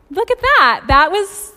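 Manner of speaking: delighted amazement. Retold or imitated. Thrilled exclamation when the rude driver gives a thumbs up. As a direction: burst out in happy wonder. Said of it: "And I was like".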